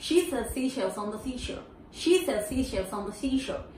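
flowing run. Shown as a demonstration. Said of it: "Once again".

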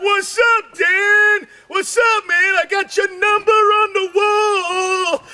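sing-song like she's tripping; high excited hairdresser. Retold or imitated. Hairdresser calling Dan about the number on the wall. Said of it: "and she's like".

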